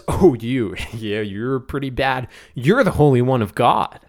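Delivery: low, half-hearted grumble with a laugh; mock frustration. Spirit fed up with Jesus, mock frustrated. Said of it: "he's very frustrated".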